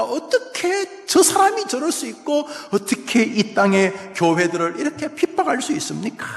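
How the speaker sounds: high-pitched, indignant appeal to God; acted outcry. Habakkuk asking how God's own people can persecute, acted outcry. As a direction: protest in disbelief, voice climbing. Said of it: "하박국이 절규하고 있는 것이죠".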